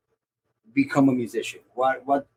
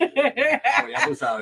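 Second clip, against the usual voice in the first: proud Boricua voice; 11 semitones higher, much slower than usual. Retold or imitated. Voicing the proud Boricua reaction.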